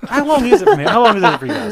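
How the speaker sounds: high and loud; loud excited question. Real, not acted. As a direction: call the question out brightly.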